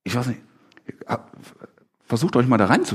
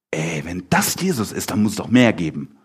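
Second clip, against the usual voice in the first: low-pitched, casual supposition as Peter; understated, speculative acted quote; musing aloud; 6 semitones lower than usual. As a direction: voice a hunch in a lower tone. First take of Peter's reasoning.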